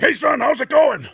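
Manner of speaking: high, loud breezy father's greeting; cheerful dad. Retold or imitated. Dad picking up his son's collect call, cheerful. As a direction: answer the phone bright and easy. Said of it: "He's like".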